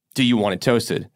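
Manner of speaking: normal talking voice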